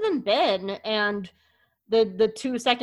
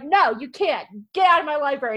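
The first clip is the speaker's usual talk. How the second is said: stern librarian; 5 semitones higher, 6 dB louder than usual. Retold or imitated. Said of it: "she's like".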